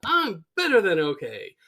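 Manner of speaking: high, loud mock boasting; manic Frank Grimes. Frank answering concerned Homer, manic and mocking. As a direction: crow it madly, stretching the name. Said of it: "he's just going nuts".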